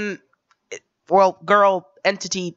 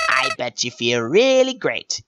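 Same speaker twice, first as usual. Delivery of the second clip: a hint of a manic villain, high on the first word; lightly voiced Joker-style menace; 3 semitones higher, slower than usual. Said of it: "I'm going for a Joker voice".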